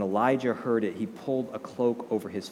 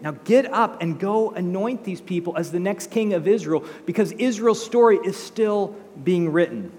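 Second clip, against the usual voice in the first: rousing declaration; 4 semitones higher, 4 dB louder than usual. Retold or imitated. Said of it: "God's like".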